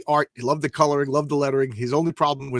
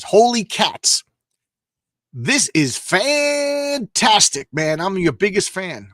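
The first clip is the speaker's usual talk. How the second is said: high, slow, awestruck guard voice; excited security guard; 5 semitones higher, 5 dB louder, much slower than usual. Acted. Guard spotting Spider-Man with his flashlight, awestruck. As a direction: gasp it out like a starstruck fan.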